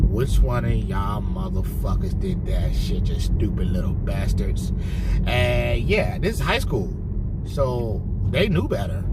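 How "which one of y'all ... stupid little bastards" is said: slow, low furious tirade at the class; angry. Retold or imitated. Teacher turning on the class after the bottle hit, slow low anger. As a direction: drag out the insults, lower and slow. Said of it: "I went the fuck in".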